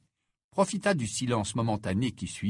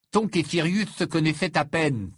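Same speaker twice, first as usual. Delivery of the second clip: raised, emphatic objection; exclaiming; 5 semitones higher, 4 dB louder than usual. Acted. Ron disputes Tonks's grief, exclaiming. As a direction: burst out with the counter-argument. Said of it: "s'exclama Ron".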